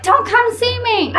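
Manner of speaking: high, slow mock voice to the dog; high singsong imitation. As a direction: lightly mimic your fiancé brushing the dog off. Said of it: "and then you were like".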